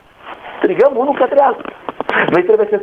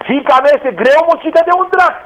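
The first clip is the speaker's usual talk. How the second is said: desperate cry; 6 semitones higher than usual. Acted. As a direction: cry out the daughter's torment. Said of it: "a strigat cu disperare".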